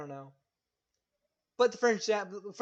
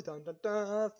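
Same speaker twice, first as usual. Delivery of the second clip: mock dramatic announcement; slower than usual. Announcing season two dramatically.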